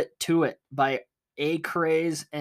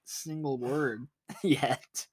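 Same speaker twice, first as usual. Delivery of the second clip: laughing; much slower than usual. Real, not acted. Laughing while teasing.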